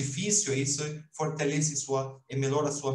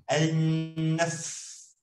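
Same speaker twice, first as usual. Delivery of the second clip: al-naf with a strong, doubled f; doubled consonant. Shown as a demonstration. Teacher showing the two letters in al-naf. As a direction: hold the f of al-naf twice as long. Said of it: "duas letras, forte".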